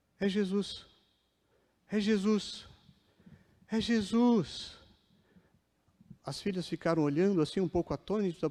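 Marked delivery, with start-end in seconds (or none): 0.2-4.8 put-on faint, soft, drawn-out, straining cry. Retelling a bedridden patient suddenly crying out: imitating someone shouting. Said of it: "a Dona Maria começou a gritar".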